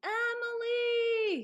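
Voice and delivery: long, high, loud call. A narrator's reading. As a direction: stretch the name out across the field. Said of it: "he called as loudly as he could".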